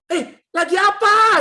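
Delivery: high, loud, drawn-out call; imitated exasperated holler; retold shout. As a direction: yell impatiently to someone in another room. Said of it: "saya teriak".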